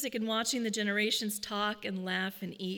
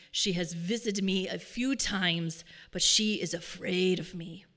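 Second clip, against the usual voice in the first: deep gravelly voice. Retold or imitated. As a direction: weigh each word, low and rough. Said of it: "deep and gravelly voice".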